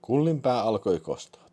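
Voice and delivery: ordinary delivery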